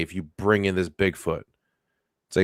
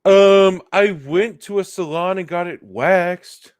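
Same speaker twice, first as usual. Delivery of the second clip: Bigfoot character; 7 semitones higher, 4 dB louder, slower than usual. Acted. Playing Bigfoot answering the teasing.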